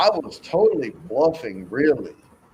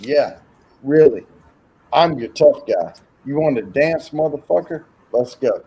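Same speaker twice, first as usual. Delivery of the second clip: retold tough-guy challenge; 3 semitones higher, 4 dB louder than usual. Retold challenge at pub table.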